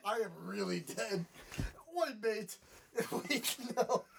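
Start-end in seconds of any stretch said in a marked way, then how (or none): 2.0-2.6 lightly done Aussie "Oi, mate"; a half-hearted Australian accent between laughs; mock Australian accent. Joking host imitating Australians, a faint mock Australian accent. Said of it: "I can't do Australian".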